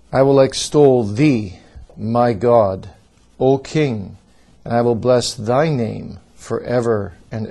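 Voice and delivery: declaiming scripture with forceful emphasis; emphatic reading. Shown as a demonstration. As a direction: lean hard into each key word of the psalm. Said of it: "I'm going to read this psalm in an emphatic way".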